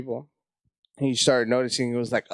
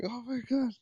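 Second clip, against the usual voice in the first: mock panic; 10 semitones higher, 8 dB quieter than usual. Panicking before going on stage.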